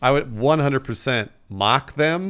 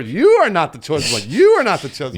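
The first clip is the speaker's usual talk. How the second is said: loud repeated denial; mock Ollivander repeating; 2 semitones higher, 4 dB louder than usual. Ollivander chanting at a fan, insistent. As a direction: hammer it over and over. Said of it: "over and over".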